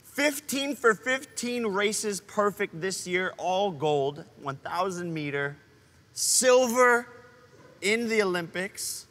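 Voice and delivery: building hype announcer voice; grand announcer intro. Acted. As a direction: announce her like a champion. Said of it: "you finally said it right".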